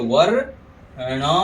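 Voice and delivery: slow वर्णनम as "varr-na-nam"; rolled रेफ demo. Shown as a demonstration. Teacher shows the रेफ in वर्णनम, slow syllable demo. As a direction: roll the र in वर्णनम, pause, then णनम. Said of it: "ऐसे उच्चारण करेंगे".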